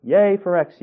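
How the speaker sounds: put-on a child cheering for X; child's cheer. A narrator's reading. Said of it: "yelled one of the children".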